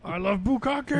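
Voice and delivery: high, hammed-up confession; comic put-on outburst; mock scream. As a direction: cry it out as the exasperated husband. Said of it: "And then he screams out".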